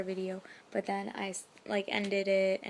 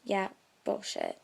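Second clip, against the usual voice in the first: dismissive; slower than usual. Retold or imitated.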